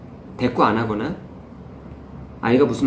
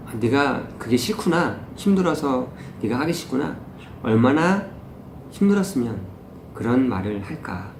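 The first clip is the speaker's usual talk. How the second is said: empathetic parent; 3 dB quieter than usual. Shown as a demonstration. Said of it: "이렇게 공감해주는 거죠". (천천히 다정하게 공감하는 말투)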